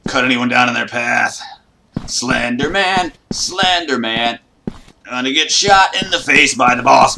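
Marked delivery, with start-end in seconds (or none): 2.1-4.4 taunting call. Real, not acted. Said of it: "taunting call".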